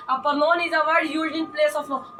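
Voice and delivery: very slow, each word separate; slow dictation. Shown as a demonstration. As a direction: dictate the definition slowly for note-taking. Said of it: "ये definition लिख लेंगे".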